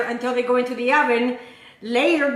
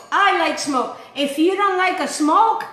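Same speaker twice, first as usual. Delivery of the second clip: louder, laughing through the joke; joking laugh; 6 semitones higher, 3 dB louder than usual. Real, not acted. Host joking with viewers about smoke, laughing loudly. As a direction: crack yourself up at the pun.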